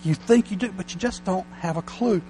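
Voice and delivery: a lightly voiced God, blunt and amused; God's voice. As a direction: talk down gently as God would. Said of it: "if he talked like this, he'd say".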